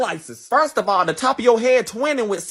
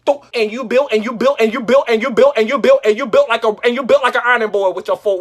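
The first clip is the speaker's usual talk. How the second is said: stammering roast build-up; 5 dB louder, faster than usual. Acted.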